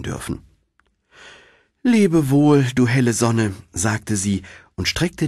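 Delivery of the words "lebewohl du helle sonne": tearful farewell. Acted. Däumelinchen bids the sun farewell.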